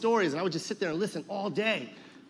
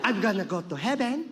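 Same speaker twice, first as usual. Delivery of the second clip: lightly voiced grandmother, rising tune; Lola Tinay; 3 semitones higher than usual. Grandmother tells grandson about heaven, lightly acted insistence. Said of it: "and she'd be like".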